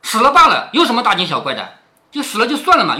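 snaps back loud to cover her fright; hammed-up angry retort; mock scolding. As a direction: bark it out, brushing off the death. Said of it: "反喝道".

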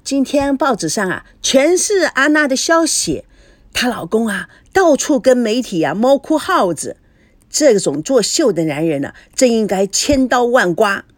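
put-on mildly childish tattle; lightly voiced gossiping child. Feifei gossips about Anna.

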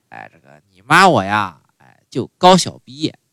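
put-on a touch of an old mom, unhurried; half-hearted mother voice explaining herself; mother speaking. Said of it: "这个就说了".

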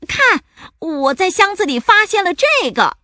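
high excited pirate announcement; calling out. A narrator's reading. Pirate showing crew a find from the chest, calling out. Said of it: "他大叫".

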